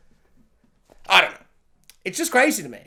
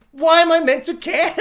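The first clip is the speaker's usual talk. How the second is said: higher, louder frustrated question; mock exasperation; exasperated cry; 8 semitones higher, 7 dB louder than usual. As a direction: throw up your hands. Speaker's own exasperated thought.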